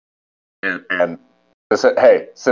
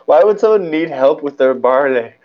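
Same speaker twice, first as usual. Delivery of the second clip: put-on Irish accent; 7 semitones higher, 4 dB louder than usual. Echoes the Irish accent phrase.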